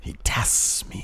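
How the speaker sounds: breathy hushed villain line; whispered quote. Retold or imitated. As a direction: whisper it slowly and darkly. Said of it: "quoting a villain line".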